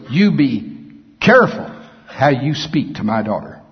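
a hint of a stern father warning; firm, protective rebuke from God; God as an offended father, lightly voiced. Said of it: "with this tone of voice".

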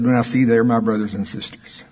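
mock religious preacher, hammed up; a hint of a sing-song preacher. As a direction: lightly parody a pious preacher. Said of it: "my mocking preaching voice".

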